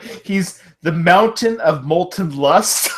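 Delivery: announcer voice. Retold or imitated. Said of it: "So the announcers say".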